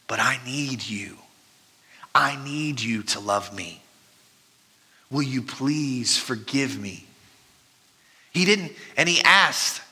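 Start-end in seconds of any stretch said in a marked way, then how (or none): 0.1-7.0 soft prayer. Acted. Sample prayer to the Lord.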